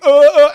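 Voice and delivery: loud, high "uh, uh"; retold burst of helpless noises; flustered stammer. Friends have left him with angry driver, flustered. Imitates own panicked stammer when abandoned.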